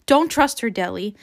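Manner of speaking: frantic. Acted. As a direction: warn her urgently, dropping on the name. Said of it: "in a frantic voice".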